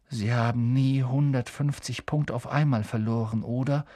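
mildly downcast; understated gloom, trailing into a small question; dejected. Acted. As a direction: say it with a touch of dejection. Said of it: "sagte Harry niedergeschlagen".

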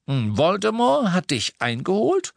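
high-pitched, sharp questioning. A narrator's reading. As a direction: demand an explanation sharply. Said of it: "sagte Lupin scharf".

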